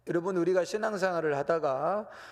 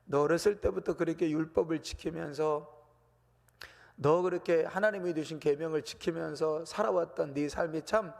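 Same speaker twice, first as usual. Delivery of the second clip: praising. Retold or imitated. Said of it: "칭찬하시는 겁니다".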